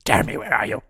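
mock neighborhood yelling; yelling for Jeremy. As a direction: run around the street hollering his name.

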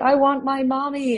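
high, slow mock wail of a little girl; a touch of a tearful toddler, drawn out; imitating a bawling child. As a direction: lightly play the crying daughter at the door. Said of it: "she was bawling and she was like".

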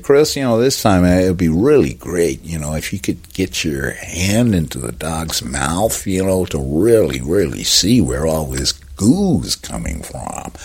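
lightly put-on American accent; easygoing American director giving a note; David Fincher. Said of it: "This isn't an accurate impression of David Fincher".

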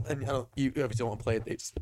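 talking through the hiccups; speech broken by hiccups. Real, not acted. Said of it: "I've got the hiccups".

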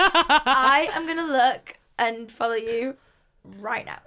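slow, through a giggle; laughing. Real, not acted. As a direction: laugh out each word. Laughing while promising to follow.

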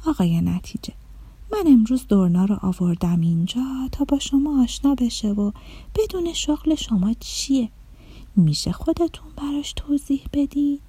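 lightly voiced fairy, polite and soft; a hint of a kindly fairy making introductions; gentle fairy lady. Fairy introduces Dorna to Mr Result, lightly voiced and polite.

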